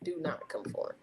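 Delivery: soft breathy whisper of advice. Acted. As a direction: whisper it like a secret. Repeats her advice, hushed.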